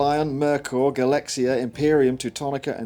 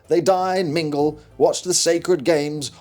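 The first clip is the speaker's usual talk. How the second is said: storyteller reading the game's lore; lightly dramatic narration of the rulebook intro; story narration. Acted. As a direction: set the scene like a fantasy narrator. Reads manual intro.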